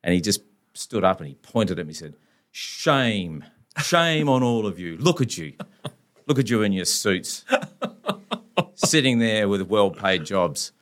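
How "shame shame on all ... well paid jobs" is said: impassioned lawyer speech. Retold or imitated.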